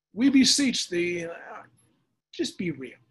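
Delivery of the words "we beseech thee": pompous prayer voice. Retold or imitated. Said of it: "they change all of a sudden".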